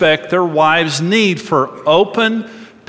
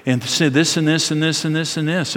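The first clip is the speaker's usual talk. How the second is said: gossiping women; 3 semitones lower, 5 dB quieter than usual. Retold or imitated. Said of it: "they're saying".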